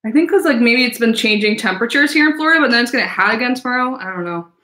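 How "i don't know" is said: sniffling through a stuffy nose; talking with a sniffle; sniffly. Real, not acted. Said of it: "Sorry, I'm sniffly".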